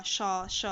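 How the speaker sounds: श drawn out as a forceful hissing sh; sh sound demo. Shown as a demonstration. Teacher demonstrating श to students, forceful hiss. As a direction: press air hard through the teeth on श. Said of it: "मुंह को एक व्यवस्थित तरीके से बोलना पड़ रहा होगा".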